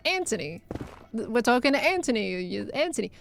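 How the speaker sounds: Anthony said with a plain T, "An-tony"; UK pronunciation. Retold or imitated. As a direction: drop the H in Anthony, a hard T in place of TH. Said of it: "all the U K people going".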